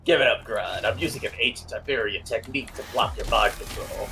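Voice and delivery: low gravelly hero voice; Batman voice. Acted. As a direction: growl it like Batman. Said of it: "Your Batman voice sounds very similar to your Solid Snake voice".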